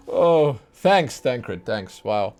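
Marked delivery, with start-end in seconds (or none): 0.0-0.6 surprised. Real, not acted. Reacting to game character.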